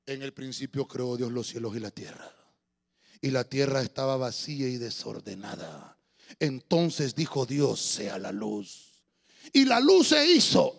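slow dramatic scripture reading; bus preacher imitation. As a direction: intone Genesis like a bus preacher.

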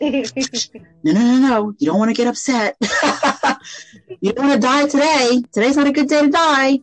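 high-pitched, hammed-up panicky warning; mock alarm, imitating your own fear; fearful pleading. Wife warns husband against questioning God, in mock fearful panic. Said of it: "I was just so fearful".

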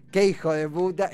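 playful, almost fond insult; light teasing. Shown as a demonstration. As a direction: say it as a cheeky joke. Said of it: "en el sentido más liviano".

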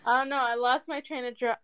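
stumbling tipsily through the words; tipsy. Real, not acted. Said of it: "I'm a little tipsy right now".

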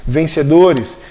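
slow, deliberate call for the group to repeat; repeat after me. Shown as a demonstration. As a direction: lead the words slowly so all can echo. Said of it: "Repita comigo". (devagar, para a turma repetir)

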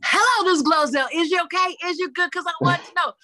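high, loud, bubbly signature hello; catchphrase greeting. Acted. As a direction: greet the fans in full show mode.

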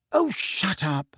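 angry. A narrator's reading. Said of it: "said Hermione angrily".

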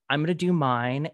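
ordinary talk, nothing marked

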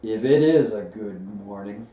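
doubtful, downcast donkey; gloomy Eeyore. A narrator's reading. Old donkey doubts the morning is good, gloomily. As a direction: lean on the doubt, glumly. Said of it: "said Eeyore gloomily".

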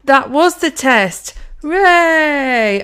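loud, high, slow fake celebration; mock cheerful instructor. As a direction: imitate a trainer's over-jolly big reveal. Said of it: "every time they go".

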